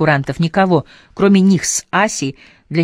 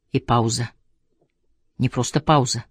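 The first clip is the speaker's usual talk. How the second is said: plain reading voice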